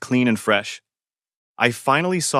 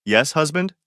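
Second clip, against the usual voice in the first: cheerful teasing; 5 semitones higher than usual. A narrator's reading. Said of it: "she laughed cheerfully".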